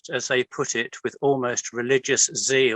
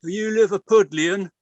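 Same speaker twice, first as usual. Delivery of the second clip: higher, louder leering challenge; 6 semitones higher, 4 dB louder than usual. Retold or imitated. Hooligan leering into the narrator's face. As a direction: menace him with a leer. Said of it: "pushed his face into mine and leered".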